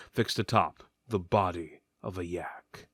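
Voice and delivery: low unvoiced whisper; hushed spooky aside. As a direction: drop to an eerie whisper. Ominous aside about Yak God.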